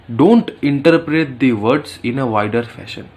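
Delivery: very slow, word by word mother; deliberate teaching mother; slow mock lecture. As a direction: spell the rule out to the kid.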